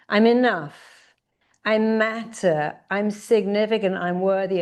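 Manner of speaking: affirmation lead. Shown as a demonstration. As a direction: lead the chant with conviction. Leads affirmations.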